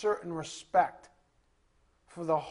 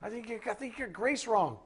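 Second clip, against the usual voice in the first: scolding correction; 4 semitones higher than usual. Retold or imitated. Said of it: "I'm gonna say".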